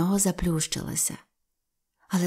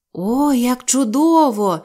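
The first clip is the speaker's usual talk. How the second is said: higher, louder, slow cry of delight; excited exclaim; 4 semitones higher, 5 dB louder, slower than usual. Acted. Children thanking the pines, high and delighted. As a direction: gasp it out with joy. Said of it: "вигукнули Сільвестр і Сільвія".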